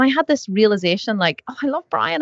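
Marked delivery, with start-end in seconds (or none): 1.5-2.2 high-pitched fond gush; retold gushing affection. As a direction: recall a rush of fondness. Retelling her gushing thought about the listener.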